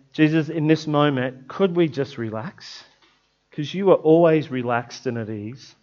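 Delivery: quiet, slowing prayer fading away; soft prayer. Acted. Preacher praying with the church to relax, softly fading. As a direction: let the prayer settle and fade.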